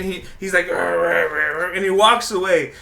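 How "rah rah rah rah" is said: imitated foreign muttering in nonsense syllables; mock grumbled "rah rah". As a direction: grumble made-up gibberish, mimicking a mutterer. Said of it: "So he's muttering in Asian".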